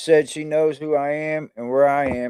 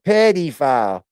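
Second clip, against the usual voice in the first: mimicked country accent. Amused streamer echoes the clip's word, mimicked Southern accent. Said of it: "Country folk have the best accent".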